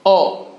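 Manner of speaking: "ओ" said short, as in ऑन. Shown as a demonstration. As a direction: keep "ओ" brief and open. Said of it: "short sound". ("ओ" की छोटी आवाज़)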